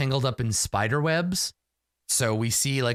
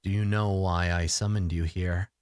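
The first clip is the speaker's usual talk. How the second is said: deep resonant voice; 4 semitones lower than usual. Acted. The deer spirit speaks again.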